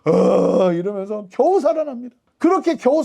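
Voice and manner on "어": mad groan. Retold or imitated. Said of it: "막 벽을 벅벅 긁으면서".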